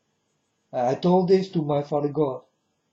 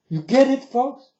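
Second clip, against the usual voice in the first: loud pressing question; 6 semitones higher, 4 dB louder than usual. Real, not acted. Pressing viewers after a threat.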